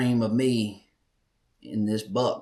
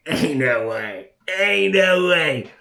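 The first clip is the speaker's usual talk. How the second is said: slow, drawn-out disbelief building louder and higher; 5 semitones higher, 6 dB louder, slower than usual. Retold or imitated. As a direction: stretch it out like you can't believe it. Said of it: "I'm like".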